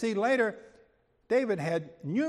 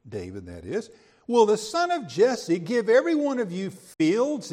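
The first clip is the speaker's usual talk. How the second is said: sarcastic; 3 dB louder than usual. Retold or imitated. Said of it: "notice the sarcasm in this".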